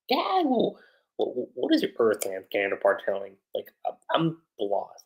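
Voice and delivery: imitating a puzzled kid; confused. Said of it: "Nasha being super confused".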